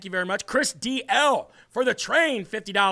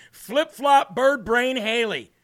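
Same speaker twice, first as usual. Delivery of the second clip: mocking nickname; 3 semitones higher, 3 dB louder, slower than usual.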